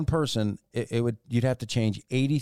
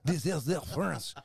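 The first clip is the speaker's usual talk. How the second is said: hammy French suitor, half laughing; bad French accent; 3 semitones higher than usual. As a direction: insist in a fake French accent. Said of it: "your French accent is Southern".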